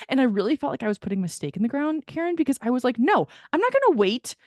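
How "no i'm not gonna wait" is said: louder, heated indignation building; getting worked up retelling it; ramped up. Real, not acted. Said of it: "getting pretty ramped up right now".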